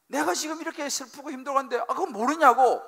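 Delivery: lightly voiced indignant wife; mock indignant wife. Wife's inner answer to her husband, mock indignant.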